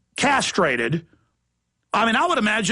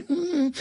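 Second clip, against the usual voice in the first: soft, higher closed-mouth hum; meek whimper; 9 semitones higher, 4 dB quieter than usual. Retold or imitated. Imitating victims with hats in hand, meek mock whimper.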